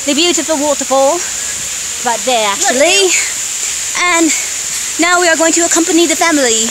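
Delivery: bad Australian accent, mixed with British; a terrible put-on Australian accent. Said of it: "this is a very terrible, terrible Australian accent".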